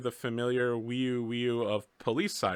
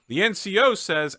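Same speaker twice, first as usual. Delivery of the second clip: mock marine relay; 6 semitones higher, 5 dB louder than usual. Marines relay NCO's reply.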